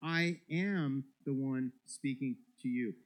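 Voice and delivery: "I am" hit hard and drawn out; slow, deliberate weight on "I am"; emphatic I AM. Shown as a demonstration. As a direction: lean firmly on "I am", spacing the words out. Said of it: "the emphasis is on the".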